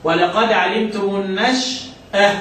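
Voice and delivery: slow, careful Quranic reading; measured recitation. Shown as a demonstration. Teacher modelling the verse for the student, slow tajweed reading. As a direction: read the verse slowly and deliberately. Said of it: "لما أقول مثلًا إيه".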